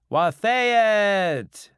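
high, drawn-out yell of the name; chorused shout. Acted. Creditors at the bar spot their debtor, loud shout. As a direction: bellow it like a whole bar greeting a debtor. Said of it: "they chorused".

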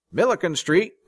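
high, loud call-out; conductor's yell. A narrator's reading. Conductor calling out the stop, yelling. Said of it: "the conductor yelled".

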